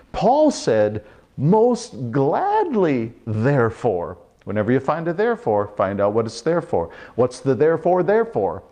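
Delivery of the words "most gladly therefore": glad exclamation. Acted. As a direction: let the joy stretch out most gladly. Paul's glad reply, acted.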